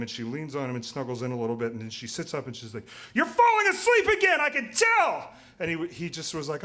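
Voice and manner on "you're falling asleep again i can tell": much higher, louder nagging wife. Retold or imitated. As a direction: squeal it like an exasperated girlfriend scolding. Couple bickering in cancer ward.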